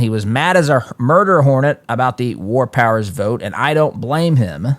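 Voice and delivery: put-on Louisiana accent. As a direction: read it with a touch of Kennedy's Louisiana accent. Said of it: "as I read these words in his Louisiana accent".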